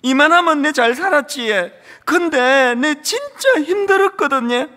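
a son finally admitting his exhaustion in Gyeongsang dialect, close to tears; tearful Gyeongsang plea. Retold or imitated. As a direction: let the held-back pain break through in Gyeongsang dialect. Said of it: "그 대사 한마디에".

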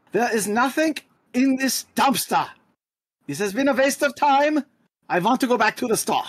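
high, petulant whine; whiny complaint. Acted. Dagny whining to Ramon about the dumpster, high. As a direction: whine like a bored kid who wants to leave. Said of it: "turn to Ramon and be like".

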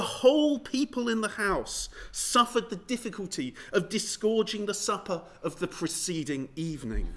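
reading the quote through a laugh; can't keep a straight face on the last line; chuckling through the end of the letter; laughing while reading. Real, not acted. Reading a disgusting letter aloud.

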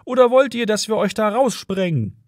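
high-pitched yelled threat; shouting policeman. A narrator's reading. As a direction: call the threat across. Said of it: "schrie wieder einer von den beiden Bullen".

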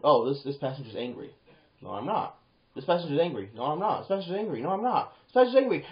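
ratchet up each accusation and denial; escalating back-and-forth. Acted. Acts escalating exchange from movie.

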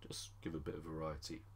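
breathy whispered aside; under-the-breath whisper. Real, not acted. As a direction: drop to a whisper for a quick aside.

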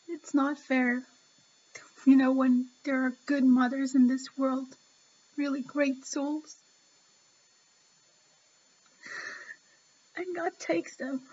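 grieving, with long halting pauses; really emotional. Real, not acted. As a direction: lament a loss while fighting tears. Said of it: "I'm really emotional".

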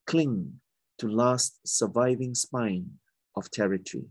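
measured poem recital with pauses between phrases; poetry reading. Acted. Poet reading a poem of Singapore's places and heritage, measured recital. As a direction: read your poem aloud, phrase by deliberate phrase.

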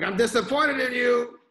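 put-on high, loud stern Indian dad accent. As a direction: scold in a thick Indian accent. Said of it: "Was that your Indian accent?".

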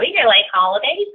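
put-on Valley girl uptalk, rising at the end. Shown as a demonstration. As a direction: lightly play up a Valley girl. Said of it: "I sound like a Valley girl".

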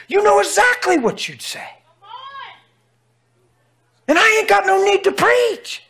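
high, loud preaching cry; full-force pulpit preaching. Acted. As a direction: preach it out with fire.

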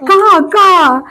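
high, drawn-out caw; slow, stretched crow calls. Shown as a demonstration. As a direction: mimic a crow for a toddler. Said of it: "കാക്കച്ച എങ്ങനെ കരയുന്നേ?".

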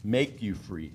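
"make" leaned on as the correct word; stress on MAKE. Shown as a demonstration. Preacher restating the verse's wording, stressing "make". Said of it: "It's two different things".

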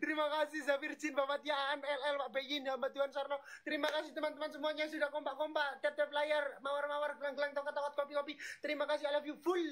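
quick, even-pitched roll call; rapid thanks. Real, not acted. Host thanks gift senders, rapid roll call. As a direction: rattle off the names fast.

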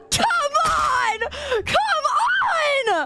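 long, stretched shouted pleas; whining shout of protest; exasperated wail. Real, not acted. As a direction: draw each cry out in dismay. Protests at the repeated prank.

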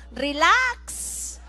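relax in a Spanish accent, trilled and open. Shown as a demonstration. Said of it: "pero así en acento español". (relax con acento español)

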